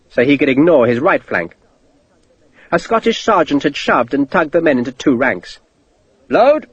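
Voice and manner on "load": barked order. A narrator's reading. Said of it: "Sharp said".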